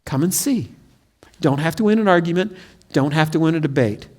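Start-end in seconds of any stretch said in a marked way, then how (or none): 0.0-0.7 soft invitation. Shown as a demonstration. Preacher models inviting a friend, softly and gently. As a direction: say it like a friendly offer. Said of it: "the way you invite's like saying".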